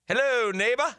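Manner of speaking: high, sing-song hello; cheery greeting. Retold or imitated. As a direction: call out a bright neighborly hello. Greeting neighbor in story.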